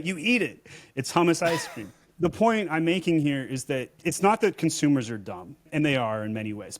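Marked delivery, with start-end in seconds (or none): 0.0-0.7 mock exasperation in a higher voice; half-hearted imitation of a fed-up vendor, pitched up; retold exasperated yell. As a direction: raise the pitch as if fed up, not truly yelling. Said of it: "screams this at the top of your".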